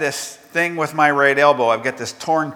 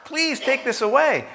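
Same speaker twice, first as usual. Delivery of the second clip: higher, slow, pleading voice; sermon begging voice, slowed and raised; 8 semitones higher than usual. Acted. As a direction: plead with God, acted and earnest. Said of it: "He begged".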